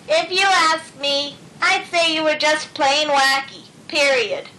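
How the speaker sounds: dry put-on voice, slow start; character voice. A narrator's reading. Luella teasing Otis about his wacky ways, dryly. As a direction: tease him, unimpressed.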